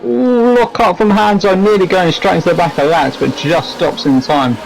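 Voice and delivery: rising gasp of surprise; ooh, caught off guard, slowed right down; surprised. Real, not acted. Commentator sees a near miss.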